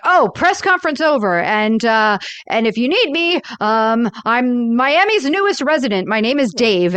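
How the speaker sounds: a hint of a flustered diplomat rushing off; quoting the Russian diplomat. Podcast host retelling the diplomat fleeing, lightly mocking. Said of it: "the Russian diplomat guy is like".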